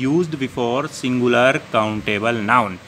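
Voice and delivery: very slow dictation of the rule; slow dictation pace; reading out slowly. Shown as a demonstration. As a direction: read each English word out slowly for the class. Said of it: "दोबारा लिख दिया है".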